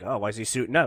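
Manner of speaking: idle puzzled murmur, imitated; mock casual wondering. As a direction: play an unconcerned onlooker, low and quiet. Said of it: "at first they're like".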